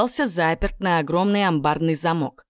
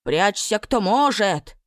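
hollering; 4 semitones higher, slower than usual. A narrator's reading. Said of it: "завопил второй".

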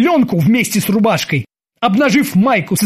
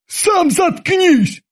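very high, slow squeal; shrieking back at his captain; thin squeal; 13 semitones higher, much slower than usual. A narrator's reading. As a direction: squeak it out in a tiny voice. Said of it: "взвизгнул ... тоненьким голоском".

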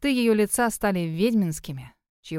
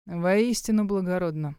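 smirking; 2 semitones lower than usual. Acted. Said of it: "усмехнулся демон".

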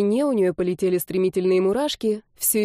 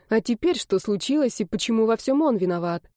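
ordinary delivery, nothing marked

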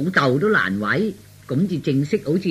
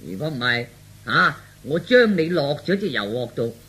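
feigned mad threats. Acted. Son faking madness threatens father for show, mock raving. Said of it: "咁至似癲㗎嘛".

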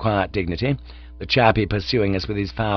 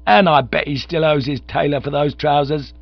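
loud, high soapbox rant; ranting orator; 10 semitones higher, 8 dB louder than usual. Acted. Bearded agitator denouncing Bertie to the crowd, ranting loudly. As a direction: harangue the crowd about idle rich. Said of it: "he was yelling".

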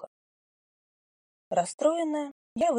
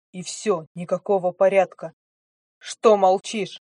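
angry scolding; 6 dB louder than usual. Acted. Angry stranger scolds heroine.

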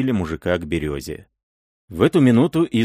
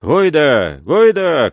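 loud, high battle shout; war cry; 7 semitones higher, 7 dB louder, much slower than usual. A narrator's reading. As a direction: bellow it like a raider charging in. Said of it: "кричал он".

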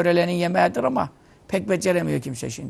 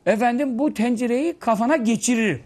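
mock threat to wife; 5 semitones higher than usual. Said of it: "gidiyorsun karıya diyorsun".

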